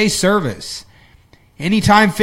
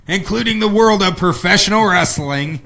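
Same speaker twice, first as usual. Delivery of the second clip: hyped-up wrestling announcer voice; pro wrestling voice. Pretend. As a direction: call it like a ringside wrestling announcer. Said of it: "I just had to go into my professional wrestling voice".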